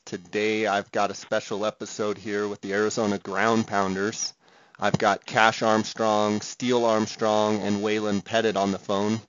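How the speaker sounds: distorted bad-connection audio; fuzz distortion. Real, not acted. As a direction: voice crackling through a bad line. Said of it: "the distortion that you're gonna hear".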